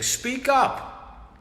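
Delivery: shrill high-pitched puppet voice; high squeaky voice. Acted. Demanding the puppet speak.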